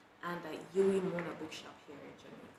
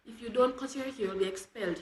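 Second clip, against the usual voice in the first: mildly stern warning, higher and louder; understated threat in a raised voice; threatening; 4 semitones higher, 6 dB louder than usual. A narrator's reading. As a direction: deliver a teacher's threat, lightly acted. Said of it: "he would threaten".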